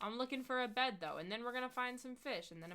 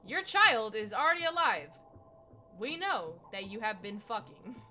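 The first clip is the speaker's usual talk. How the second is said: grandma telling mom off, mock outraged; exasperated grandma; 9 dB louder than usual. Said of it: "my grandma's like".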